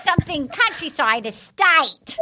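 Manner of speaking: slow, fumbled New Zealand accent. Shown as a demonstration. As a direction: drag out a shaky Kiwi attempt. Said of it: "this is New Zealand. Ready?".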